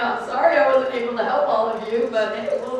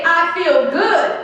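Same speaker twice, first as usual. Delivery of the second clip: cheerful prompt; 3 semitones higher, 4 dB louder, slower than usual. Shown as a demonstration. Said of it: "I want you to say".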